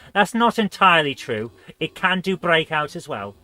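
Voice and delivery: lilting mock Welsh accent; fake Welsh. Streamer jokingly correcting a viewer, fake Welsh accent. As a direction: put on a light, jokey Welsh accent. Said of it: "fake Welsh".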